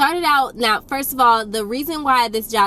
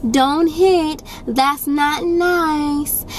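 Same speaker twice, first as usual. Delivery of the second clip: higher, slow sing-song scold; mock weak parent; 6 semitones higher, much slower than usual. Parents gently telling the toddler not to hit, mock weak scold. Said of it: "They'd be like".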